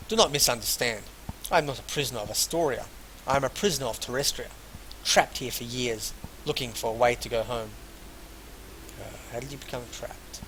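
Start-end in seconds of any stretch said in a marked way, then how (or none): 0.1-7.7 deliberate, projected reading of a character's lines; read-aloud dialogue. Acted. Player voices Masha about her lands, deliberate read-aloud. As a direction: read the dialogue out without an accent.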